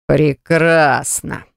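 slow low roar like a wild beast. Acted. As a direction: roar it out like an animal. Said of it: "проревел диким зверем". (рёв дикого зверя)

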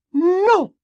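very high, loud refusal; furious verdict. A narrator's reading. Mother refusing her daughter, furious and final. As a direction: lay down the law, high and loud. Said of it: "sentenció la señora Weasley".

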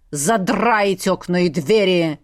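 drawn-out commanding father; barked order. A narrator's reading. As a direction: bark it slowly, with weight. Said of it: "гаркнул отец на испуганную горничную". (раскатистый командный окрик)

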